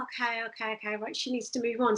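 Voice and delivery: soft, low, hurried aside; hushed retold thought to oneself; quiet self-talk. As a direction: say it under your voice, quickly. Retells calmly handling slow lady.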